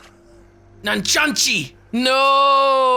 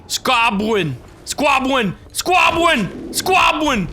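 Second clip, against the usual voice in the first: mimicking name, building; slower than usual. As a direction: start muttered, end in a shout. Repeating game caveman's name.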